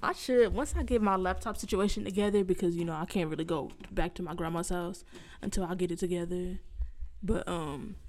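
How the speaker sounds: distant, muffled voice; talking from under a table; far from the mic. Real, not acted. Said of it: "Why you sound so far away?".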